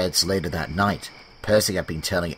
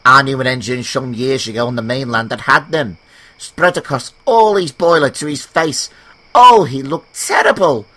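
higher, louder teasing engine voice; teasing James; 4 semitones higher, 7 dB louder than usual. Acted. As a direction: spin a spooky tale to tease. James teases Percy.

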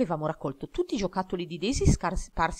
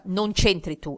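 shrill yell; 2 semitones higher, 4 dB louder, slower than usual. Acted. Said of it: "ha strillato".

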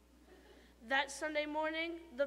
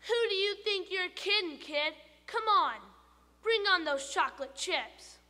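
much higher, louder squeaky tooth voice; tooth calling out; 5 semitones higher, 6 dB louder than usual. Acted. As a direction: blurt it from inside the mouth.

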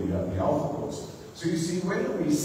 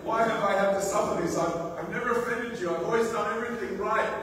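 crying out; 6 semitones higher than usual. Retold or imitated. Job crying out to God over his suffering, pleading. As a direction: cry out to heaven asking why. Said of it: "he kind of cries out to God".

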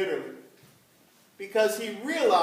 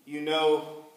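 Peter answering; 9 semitones lower, 5 dB quieter than usual. Retold or imitated. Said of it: "And Peter says".

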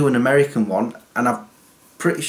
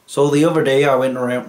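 failed Australian attempt. Shown as a demonstration. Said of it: "nope, that's not Australian".

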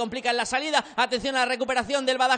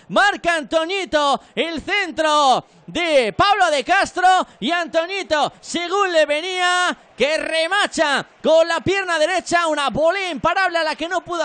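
excited goal recap; 6 dB louder, slower than usual. Real, not acted. Goal replay description, excited.

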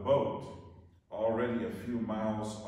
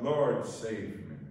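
pleading cry; 4 dB louder, slower than usual. Acted. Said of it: "he cried out".

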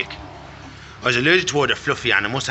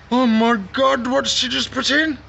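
mock shock; 10 semitones higher, 3 dB louder than usual.

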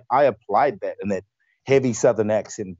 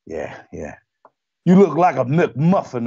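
harsh drill instructor; 3 semitones higher, 3 dB louder than usual. Retold or imitated. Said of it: "really harsh".

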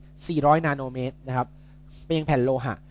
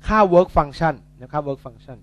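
slow emphasis; 6 dB louder, much slower than usual. Shown as a demonstration. Tutor drilling the key term to students, slow and deliberate. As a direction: spell out work function very slowly. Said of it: "tutor stresses key term".

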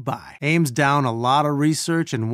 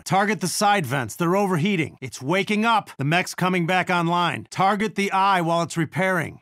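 higher-pitched urgent battle direction; tense combat radio call, pitched up; 3 semitones higher than usual. Acted. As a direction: call out targets to the team mid-fight. Urgent combat call-outs during boss fight.

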